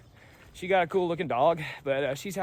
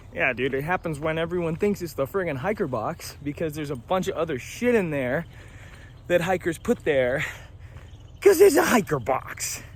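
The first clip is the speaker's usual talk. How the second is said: mock exasperated; 3 semitones higher than usual. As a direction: rant rising to a squeak. Retelling their exasperated reply.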